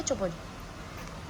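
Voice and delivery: slow whispered shush; whispered hush. Real, not acted. Mother whispering to her crying baby, slow whisper. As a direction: breathe it out slowly to settle him.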